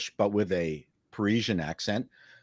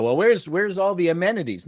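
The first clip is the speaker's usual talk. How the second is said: whiny tourist; 6 semitones higher, 4 dB louder than usual. Retold or imitated. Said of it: "tourists who go".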